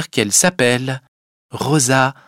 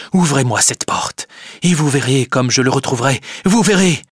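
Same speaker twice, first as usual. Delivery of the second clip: insist, getting more worked up; urgent demand; 3 semitones higher than usual. Acted. Cornelius demands release to chase thief. (exigence pressante, de plus en plus agitée)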